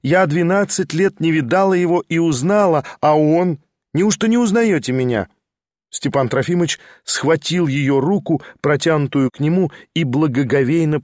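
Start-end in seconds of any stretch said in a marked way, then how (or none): 0.0-5.3 put-on higher, eager young woman; lively girl teasing an old friend; young woman's voice. Lizaveta's voice held.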